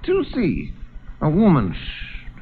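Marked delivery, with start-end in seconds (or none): 1.8-2.4 sharp unvoiced shush; hush. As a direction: hush him quickly. Hushing the stranger.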